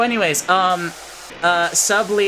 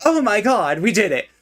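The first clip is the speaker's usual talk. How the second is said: excited; 4 semitones higher than usual. Real, not acted. Beat the game at last.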